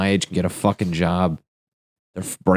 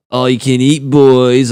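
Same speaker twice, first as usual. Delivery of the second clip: sultry waitress; 5 semitones higher, 7 dB louder than usual. Acted. Waitress on bar, seductive.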